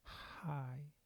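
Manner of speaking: a soft airy hi with a lot of breath; breathy hi. Retold or imitated. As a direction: push air through the hi close to a face. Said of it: "They say".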